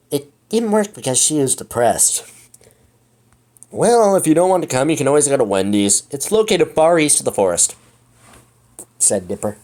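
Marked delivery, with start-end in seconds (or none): 3.7-7.7 manly voice. Acted. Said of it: "giving Dipper such a manly voice".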